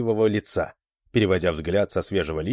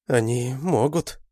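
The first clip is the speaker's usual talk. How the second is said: grim remark; 4 semitones higher, slower than usual. A narrator's reading. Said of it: "мрачно заметила Адель".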